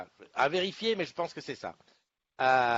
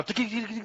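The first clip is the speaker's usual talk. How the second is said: imitated ticking; 8 semitones higher, 3 dB quieter than usual.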